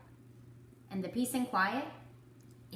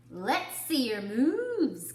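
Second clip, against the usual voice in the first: calling out; 4 semitones higher, 5 dB louder, slower than usual. A narrator's reading. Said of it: "called Pig".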